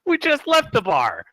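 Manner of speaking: high, loud protest through laughter; real incredulous laughter in the voice; laughing protest. Real, not acted. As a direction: crack up while objecting. Cracking up at bathroom break.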